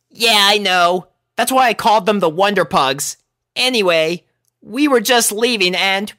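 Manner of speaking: lightly voiced brash filly; Rainbow voice. A narrator's reading. Rainbow explaining the pug name to Rarity, brash.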